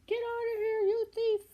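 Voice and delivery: high, loud furious yell at a thief; angry farmer's shout. Acted. McGregor shouting at Peter in his garden, a high loud furious yell. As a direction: bellow him off your land.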